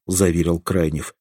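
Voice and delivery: usual speaking voice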